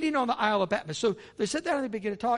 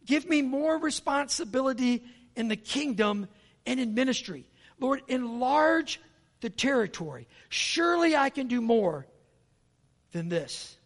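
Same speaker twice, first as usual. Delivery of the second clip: lifted, slow pleading prayer; model prayer; 5 semitones higher, 3 dB louder, slower than usual. Shown as a demonstration. Pastor showing the congregation how to pray. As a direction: lead them in the prayer, slowly. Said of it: "You got to start praying".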